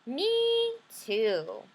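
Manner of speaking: eager little sister piping up. Acted. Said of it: "she said".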